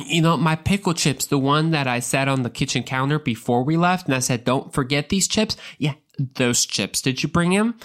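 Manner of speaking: lightly voiced wife pressing her husband; insistent Mary. Mary reminding Joseph about the chips on the counter, pointed. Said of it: "I can see Joseph just say".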